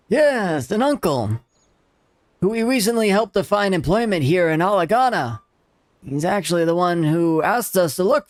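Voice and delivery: a hint of a grumpy old man. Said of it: "old man voice".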